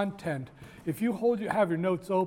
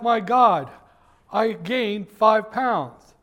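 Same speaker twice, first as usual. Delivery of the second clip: mock dismay; 4 semitones higher, 6 dB louder, much slower than usual. Imitating dieter's dismay.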